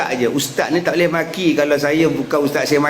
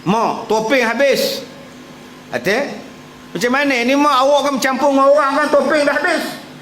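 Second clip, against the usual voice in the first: put-on worried child; 10 semitones higher than usual. Child frets to mother about masks.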